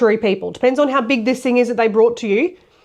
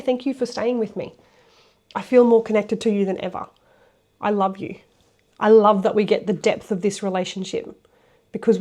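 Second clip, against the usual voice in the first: calm and tender. Shown as a demonstration. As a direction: thank them gently, no push. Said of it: "So speak calmly".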